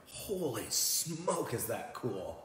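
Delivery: slow, drawn-out wonder with a laugh; awestruck. Retold or imitated. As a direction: marvel at the sunrise. Awe at sunrise.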